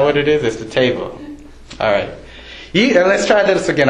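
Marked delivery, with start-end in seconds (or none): 2.7-3.9 a quick mock-stern nudge; coaxing them to answer; playful prod. Real, not acted. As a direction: tease the crowd into a second try, quicker. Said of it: "I'll give you another chance".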